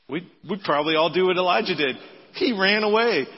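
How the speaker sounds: loud preaching. Real, not acted. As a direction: drive it home to the congregation.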